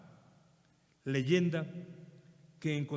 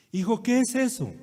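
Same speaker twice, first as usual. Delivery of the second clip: raised, louder insistent asking; old father pressing his son, louder; repeated question; 7 semitones higher, 8 dB louder than usual. Retold or imitated. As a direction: call the question out again, higher. Father asks the second time.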